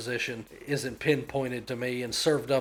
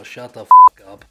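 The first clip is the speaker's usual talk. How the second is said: angry shout; 23 dB louder than usual. Real, not acted. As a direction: yell it out suddenly, much higher and louder. Angry outburst at complaining community.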